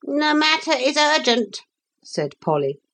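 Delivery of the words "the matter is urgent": calm. A narrator's reading. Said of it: "but quite calmly".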